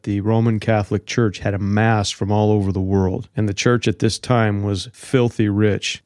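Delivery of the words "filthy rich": FILTHY leaned on and drawn out slowly; slow down to emphasize "filthy"; weighty emphasis on the word "filthy"; stress on filthy. Real, not acted. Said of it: "emphasizing the word filthy".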